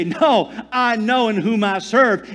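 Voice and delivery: slow, firm, bold declaration. Shown as a demonstration. Believers answer their circumstances with a bold, slow declaration. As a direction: declare it boldly and slowly. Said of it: "we boldly say".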